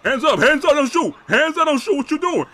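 loud repeated pleading calls; mock surrender cries. Player pretending to surrender to cops, loud mock pleading. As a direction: yell it like you're surrendering to cops. Role-playing surrender to police.

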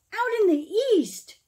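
mild storybook shout. Acted. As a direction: call it out like spotting the star. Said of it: "each one shouted".

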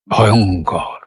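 ভয়ঙ্কর low, with weight on the middle অং; middle-syllable stress. Shown as a demonstration. Teacher repeats it so students find the beat, middle-syllable stress. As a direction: lean hard on the অং in ভয়ঙ্কর. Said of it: "অং এর উপরে ঝোঁকটা পড়ছে".

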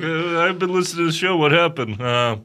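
lightly imitated puzzled listener; Jerry. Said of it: "Jerry's like".

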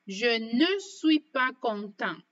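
slow, careful je ne suis pas content; teacher demo, slowed right down; slow model sentence. Shown as a demonstration. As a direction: say each word apart for learners. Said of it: "Por ejemplo".

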